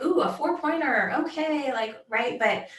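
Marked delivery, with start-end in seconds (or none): 0.0-1.7 high, excited crowd gasp; crowd excitement. Retold or imitated. Fans at the game, excited and high-pitched. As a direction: cheer it like fans seeing a four-pointer. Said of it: "Everybody was like".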